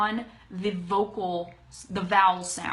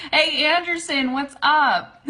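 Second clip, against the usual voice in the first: high, loud friendly hail; delighted, louder hello; excited greeting; 6 semitones higher, 7 dB louder than usual. Real, not acted. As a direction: break off to greet a newcomer. Greets viewer who just joined.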